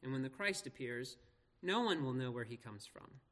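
measured public Bible reading; scripture reading. Acted. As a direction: read the passage out clearly, phrase by phrase. Reads scripture aloud to congregation.

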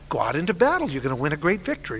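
quick, sing-along sarcastic parroting. Acted. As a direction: toss off the rehearsed line with mock agreement. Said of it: "very sarcastically, so sarcastically that Ahab knew it was sarcasm".

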